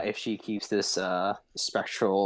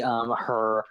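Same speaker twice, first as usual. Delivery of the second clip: normal talking voice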